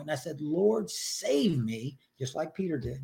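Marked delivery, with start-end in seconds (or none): 0.4-2.0 slow, broken retold prayer; a hint of retold weeping; tearful plea. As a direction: drag it out as if through tears. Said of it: "I'm crying at this point".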